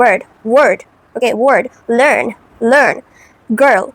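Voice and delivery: put-on "bird, word, learn, girl" with held R, mouth barely open; controlled R. Shown as a demonstration. Showing learners, "bird, word, learn, girl" with controlled R. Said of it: "you will sound like this".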